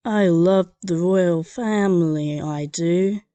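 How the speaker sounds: slow, hammed-up posh British; American doing a bad British accent; American faking a British accent for the examiner; mock British accent. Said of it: "do your best impression of a Brit".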